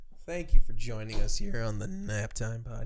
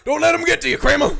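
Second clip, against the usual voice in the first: high, louder, laughing encouragement; laughing mock comfort; 13 semitones higher, 11 dB louder, faster than usual. Cohost voicing a comic encouraging Kramer, laughing. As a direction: cheer him on through laughter. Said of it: "He's like".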